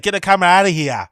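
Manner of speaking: lightly mimicked North American regional accent; imitated North American accent. Viewer copying the man in the video, mock North American accent. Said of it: "That's a mad accent".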